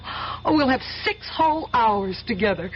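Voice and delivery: giddy laugh through the words; bubbling over with happy laughter; laughing with joy. Acted. Woman laughing with joy over hours together with Steve.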